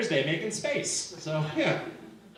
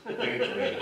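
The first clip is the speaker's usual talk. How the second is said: Very brave pitched up and set apart; sharper sarcasm; 5 semitones higher, 4 dB quieter than usual. Retold or imitated. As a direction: snap back up on Very brave, pointed and higher. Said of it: "She was just like".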